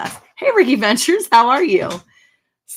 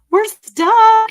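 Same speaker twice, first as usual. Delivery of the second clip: high squeal of frustration; 7 dB louder than usual. Real, not acted. Frozen stream, calling to viewers.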